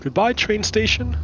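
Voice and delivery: sing-song high farewell; high-pitched goodbye. Acted. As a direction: wave it off in a high voice. Playful farewell to a building.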